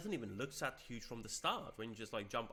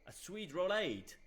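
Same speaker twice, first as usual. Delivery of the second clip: higher, louder, slow faux-French vampire; hammed-up vampire accent, drawn out; mock vampire accent; 7 semitones higher, 5 dB louder than usual. Streamer reading Vlad's gift of food, mock vampire accent. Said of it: "I'm afraid I'm doing a French accent".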